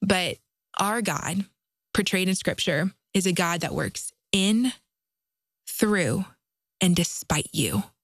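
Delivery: unhurried, deliberate pace. Addressing parents, slowing down to make a point, slow and deliberate. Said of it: "I'm going to say it slow".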